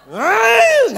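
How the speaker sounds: high loud yelp of a rebuke; loud rebuking yell; shout. Shown as a demonstration. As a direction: bark it out sharply. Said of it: "itu nengking yang bener gitu".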